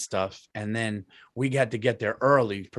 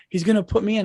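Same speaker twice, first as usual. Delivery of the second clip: imitating daughter; 8 semitones higher, 3 dB louder, faster than usual. Daughter voiced nervously.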